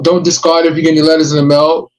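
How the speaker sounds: ordinary talk, nothing marked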